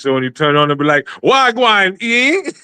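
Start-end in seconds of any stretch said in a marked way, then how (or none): 1.2-2.5 Jamaican patois greeting, rising at the end. Pretend. Voicing a Jamaican-English app at startup, in a Jamaican patois voice. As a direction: toss off a Jamaican patois hello. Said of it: "an app that speaks like broken English".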